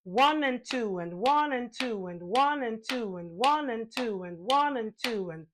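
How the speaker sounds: slow, even counting on the beat; rhythmic counting. Shown as a demonstration. Teacher counts four subdivisions for class, rhythmic chant. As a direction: count the subdivisions steadily in time. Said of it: "Like this".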